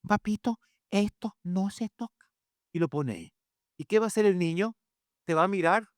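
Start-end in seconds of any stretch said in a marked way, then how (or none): 0.1-2.3 calm parent warning. Shown as a demonstration. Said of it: "Usted simplemente dice una vez".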